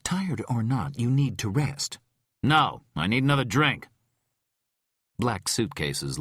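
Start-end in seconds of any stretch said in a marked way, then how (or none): 0.0-2.0 firm caretaker. A narrator's reading. Tom urges Rhyme to rest. 2.4-3.9 put-on demanding drunk. A narrator's reading. Rhyme demands a drink.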